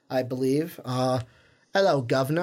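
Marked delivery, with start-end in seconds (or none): 1.7-2.4 joking attempt at an Australian accent; half-hearted Aussie accent, more English than Australian; mock Australian accent. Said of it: "If you do a good Australian accent".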